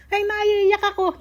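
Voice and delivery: mother recalling airport tears, emotional. Real, not acted. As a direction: relive the moment she broke down.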